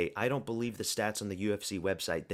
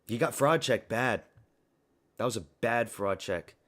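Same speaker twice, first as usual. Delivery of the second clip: real burst of frustration, louder; louder rant; 5 dB louder than usual. Real, not acted. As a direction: call out the loss with a louder voice. Ranting at a fighter's loss.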